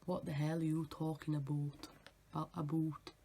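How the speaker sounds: attempted Scottish accent, rounded vowels. Vlogger trying out a TikTok guy's voice, rough Scottish accent. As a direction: lightly mimic a Scottish voice. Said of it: "That's Scottish".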